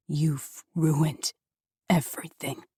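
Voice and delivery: low, flat, cold delivery. Acted. Father telling daughter, cold and flat. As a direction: state it with no feeling. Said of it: "cold and flat".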